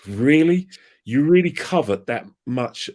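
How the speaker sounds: loud, high incredulous challenge; mock disbelief. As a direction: needle him with disbelief. Mock grilling a guest over his abuse.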